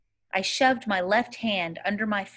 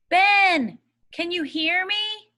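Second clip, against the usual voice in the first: loud high call, straining to carry; 9 semitones higher, 6 dB louder, slower than usual. A narrator's reading. Boy calling for the missing child across the creek, loud. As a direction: yell it out over the marsh.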